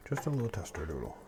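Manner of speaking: soft unvoiced whisper. Real, not acted. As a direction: whisper it playfully. Taste test aside.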